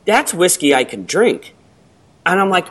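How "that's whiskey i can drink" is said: high put-on "oh" of discovery; radio ad woman. Ad woman after tasting the whiskey, mock delighted. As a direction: mimic an actress won over after a sip. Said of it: "She's like".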